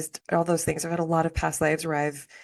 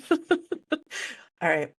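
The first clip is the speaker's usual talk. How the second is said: bright laugh; 11 semitones higher than usual. Real, not acted. Laughs at own joke.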